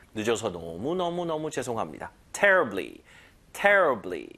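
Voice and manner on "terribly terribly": terribly punched, with a falling tune; stress on terribly. Shown as a demonstration. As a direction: hit "terribly" firmly, falling. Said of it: "요거 힘을 여기다 주시고". (terribly에 힘을 주고 내려가는 억양)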